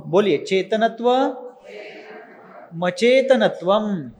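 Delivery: संधि के साथ धीरे धीरे अभ्यास; sandhi reading drill. Shown as a demonstration. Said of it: "इसलिए पढ़ते समय क्या पढ़ना है?".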